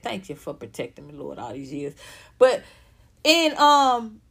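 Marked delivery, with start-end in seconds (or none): 0.0-1.9 low, very soft thanks to God; quietly grateful, under the breath; hushed prayer. Retold or imitated. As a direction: drop into a private murmured prayer.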